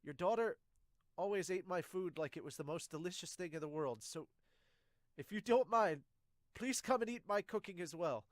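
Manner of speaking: a hint of an eager, proud cook; cook's voice. Cook inviting the soldiers to eat, lightly voiced and eager. Reads manga cook's lines aloud.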